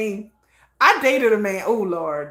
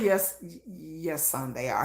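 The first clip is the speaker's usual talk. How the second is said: much softer, lower reply to a son; low, quiet admission; 7 semitones lower, 10 dB quieter, slower than usual. Retold or imitated. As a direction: let the answer sink low and quiet. Answers son's question resignedly.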